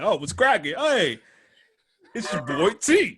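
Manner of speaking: loud, high hype-man hello; over-the-top, drawn-out homeboy greeting; hyped-up greeting. Acted. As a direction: announce yourself with exaggerated swagger. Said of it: "I'm not gonna be like".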